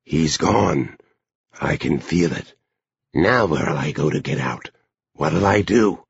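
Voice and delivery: mild, plaintive lament; a touch of helpless moaning; moaned distress. A narrator's reading. Brother inside tells Edie his chance is gone, mildly moaning. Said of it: "within her Bill moaned".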